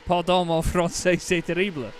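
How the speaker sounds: stumbling tourist French; halting French. Retold or imitated. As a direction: say it in an English speaker's careful French. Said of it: "by saying it in French".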